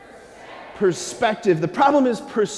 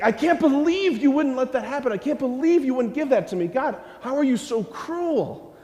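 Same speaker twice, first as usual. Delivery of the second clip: higher, a touch of an aggrieved complaint; mild mock anger; 6 semitones higher than usual. Preacher retelling being mad at God, mild mock anger. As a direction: let the hurt show in a half-acted rant. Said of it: "I've gotten really mad at God".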